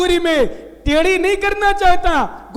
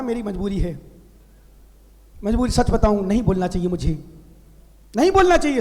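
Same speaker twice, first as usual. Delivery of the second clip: ordinary delivery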